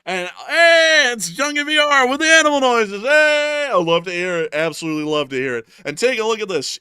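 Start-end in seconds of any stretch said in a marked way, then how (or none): 0.0-5.7 high, loud hype-man greeting; excited shout. Real, not acted. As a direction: hype the donor up at full volume. Hyped greeting of the animal noises.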